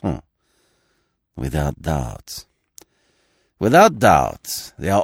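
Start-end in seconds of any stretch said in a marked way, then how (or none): 0.0-0.2 brief, scornful "hmm" of a laugh; short unpleasant laugh. A narrator's reading. Magistrate scoffing at the prisoner's oath, short unpleasant laugh. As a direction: give one short, unpleasant huff of laughter. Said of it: "He laughed a short, unpleasant laugh".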